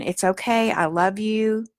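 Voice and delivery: tender and patient; gentle reassurance. Shown as a demonstration. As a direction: comfort a scared part of yourself. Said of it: "We're gonna stay in".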